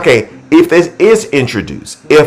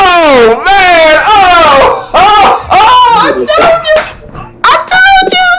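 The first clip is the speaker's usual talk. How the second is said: much higher, louder shouts; excited shouting; 5 dB louder, slower than usual. Real, not acted. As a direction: shout it out, overwhelmed. Shouting after hearing the clip.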